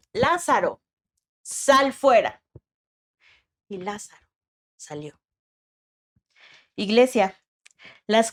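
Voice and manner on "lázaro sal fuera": slow, a little louder, commanding call; mild retold shout. Jesus calls Lázaro out of the tomb, mild slow shout. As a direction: call him out of the tomb, restrained. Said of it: "Jesús le grita".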